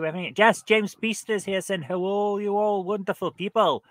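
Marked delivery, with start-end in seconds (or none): 1.8-3.8 higher-pitched mock Scottish greeting; fake Scottish accent. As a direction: put on a light Scottish accent. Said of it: "a fake Scottish accent for this one".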